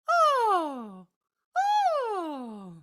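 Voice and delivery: two quick high sighs; short sighing oh. Shown as a demonstration. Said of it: "Maybe two short ones".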